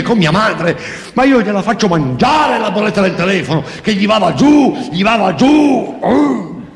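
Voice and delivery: very high, thin, unsuited voice; furious wife ranting in a squeaky voice. Acted. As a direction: rant like a furious woman with a tiny voice. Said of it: "con quella sua voce sottile e inadeguata".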